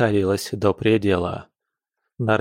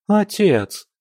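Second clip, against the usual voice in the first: hurt protest; 11 semitones higher than usual. A narrator's reading. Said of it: "обиделась Октавия".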